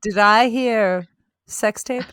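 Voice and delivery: slow, drawn-out valley girl mock; mock reality star. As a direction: drawl it like a starlet smelling fame.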